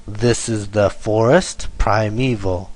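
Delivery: measured beat on "This", "for" in "forest" and "me" in "primeval"; dactylic stress. Shown as a demonstration. Teacher reading dactyl example, stressing "This" and "forest". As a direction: read in threes, stressing the first of each. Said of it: "with the first one being long".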